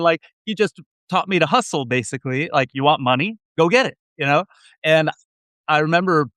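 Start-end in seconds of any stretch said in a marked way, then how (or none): 2.7-4.0 put-on Israeli accent. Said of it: "in a heavy Israeli accent".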